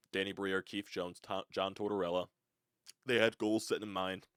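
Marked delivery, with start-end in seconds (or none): 3.0-4.2 hiccups breaking the words; talking through hiccups; hiccuping while eating. Real, not acted. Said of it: "Excuse me, I keep hiccuping".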